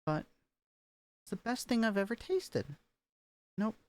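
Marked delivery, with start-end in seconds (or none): 1.2-2.8 a take pitched too high on "thing"; too-high practice take. Shown as a demonstration. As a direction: start "it's the best thing" up high, overdone. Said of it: "Nope, too high".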